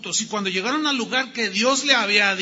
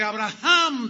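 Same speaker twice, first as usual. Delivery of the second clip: strong call; 2 semitones higher, 4 dB louder, slower than usual. Acted. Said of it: "dos veces".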